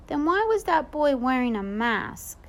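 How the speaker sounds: put-on little brother quizzing the babysitter, high; curious toddler. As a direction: ask wide-eyed like a toddler.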